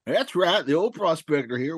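lightly voiced old prospector; a hint of a grizzled old miner; gruff mountain man. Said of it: "it's Prospector".

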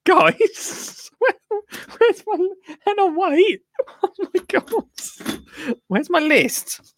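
high, squealing, laughing excitement; can barely contain the thrill; giddy excitement. Real, not acted. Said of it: "I've never been so excited".

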